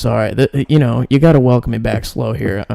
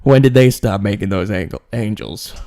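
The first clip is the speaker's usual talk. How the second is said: a light comedian impression; lightly put-on stand-up complaint; Bill Burr. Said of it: "That was Bill Burr".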